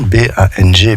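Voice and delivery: ordinary talk, nothing marked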